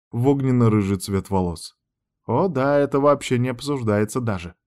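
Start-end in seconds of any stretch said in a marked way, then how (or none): none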